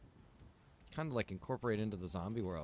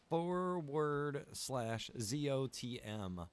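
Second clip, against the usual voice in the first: slow, careful dictation of the link; reading out a web address letter by letter; spelled out slowly; 4 semitones higher, much slower than usual. Real, not acted. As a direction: spell each letter out for viewers to type.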